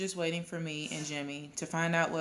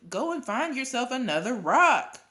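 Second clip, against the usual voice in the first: raised, annoyed order; exasperated shout; 7 semitones higher, 6 dB louder than usual. A narrator's reading. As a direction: shout it high and loud to shoo someone off. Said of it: "I shouted".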